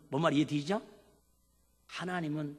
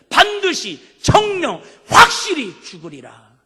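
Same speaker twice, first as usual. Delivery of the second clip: booming, slow, much louder voice of God declaring death; 5 semitones higher, 16 dB louder, slower than usual. Acted. God pronouncing death to King Hezekiah, booming. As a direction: thunder it down like a divine sentence. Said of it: "세 번을 얘기합니다".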